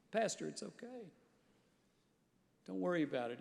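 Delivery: a gentle, smiling reassurance; gentle smile. Retold or imitated. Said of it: "he said with a gentle smile".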